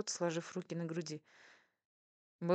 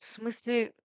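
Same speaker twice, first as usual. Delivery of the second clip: loud, flustered, higher-pitched self-defence; stammering excuse; 5 semitones higher, 9 dB louder, much slower than usual. A narrator's reading. Waitress justifies herself to her boss, stammering. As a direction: blurt it out, dragging and stumbling over words. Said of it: "оправдывалась она, заикаясь".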